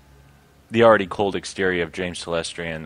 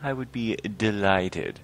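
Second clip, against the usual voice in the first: slow, drawn-out mock delight; possibly sarcastic; 3 semitones higher, slower than usual. Troll with no choice accepts joining the committee, mildly sarcastic. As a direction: accept with slightly overdone politeness. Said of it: "I don't know if that is sarcasm".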